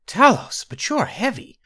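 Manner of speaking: high, mock-straining exclamation; feigned strain. A narrator's reading. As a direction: pretend to heave up a heavy child. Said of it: "with feigned strain".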